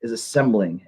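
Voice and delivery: measured recital with long pauses between phrases; spooky poetry reading. Acted. Poet performs All Hallows for a livestream, spooky measured recital. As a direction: read it as a spooky poem, letting each phrase hang.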